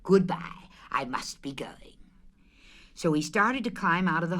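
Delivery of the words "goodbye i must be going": whispered. Acted. Pooh whispering to himself.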